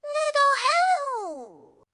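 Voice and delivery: slow, high pleading call; panicked plea. A narrator's reading. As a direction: beg for help, panicked. Trapped character calls out.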